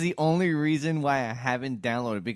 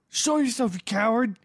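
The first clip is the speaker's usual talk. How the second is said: much higher, louder mock taunt; mocking a ghost hunter cursing at a ghost, taunting; 10 semitones higher, 5 dB louder than usual. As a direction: goad the ghost like a TV host. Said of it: "It's like".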